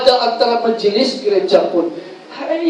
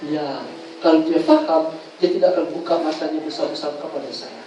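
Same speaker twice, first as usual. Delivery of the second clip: patient reasoning; 4 semitones lower, 5 dB quieter than usual. Retold or imitated. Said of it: "dan berkata".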